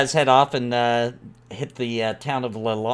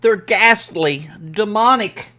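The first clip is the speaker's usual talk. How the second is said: lightly voiced villager, high and rattled; frightened villager; 8 semitones higher, 6 dB louder than usual. Villager describing ghastly things to a possible helper, mildly frightened. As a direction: stammer it higher, a touch of fear.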